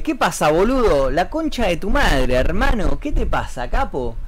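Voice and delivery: showy Buenos Aires street slang; unmistakable Argentine accent. Shown as a demonstration. Streamer showing viewers where they're from, unmistakable Argentine accent. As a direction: lay on the porteño accent, mock-confrontational. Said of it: "este acento inconfundible que tengo".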